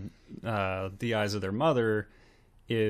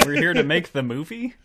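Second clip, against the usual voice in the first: higher, hesitant impostor voice; impostor filmmakers; 6 semitones higher, 4 dB louder than usual. Acted. Impostors showing up to direct, bluffing in higher voices. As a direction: pose unconvincingly as famous brothers, pitched up. Playing impostors posing as the Coens.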